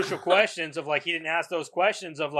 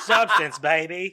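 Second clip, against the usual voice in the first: Austin Powers impression; slower than usual. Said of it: "that was Austin Powers".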